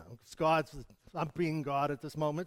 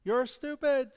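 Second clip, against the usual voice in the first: mock insult called out; 6 semitones higher than usual. Shown as a demonstration. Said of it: "what you send out".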